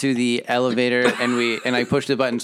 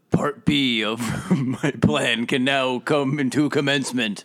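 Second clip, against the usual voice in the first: mock villain. Player villainous plan line.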